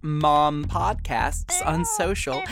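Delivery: measured announcer read over music; practised promo voice, names set apart; podcast credits read. Real, not acted. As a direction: read out the credits with deliberate polish.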